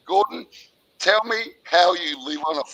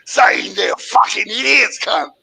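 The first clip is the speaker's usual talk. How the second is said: angry shout; 3 semitones higher, 4 dB louder than usual. Real, not acted. Caller yelling at Gordon who belittled people, angry shout. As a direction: shout him down.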